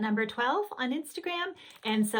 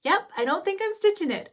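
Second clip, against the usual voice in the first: stubborn refusal; 10 semitones higher, 5 dB louder than usual. Retold or imitated. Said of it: "And I was like".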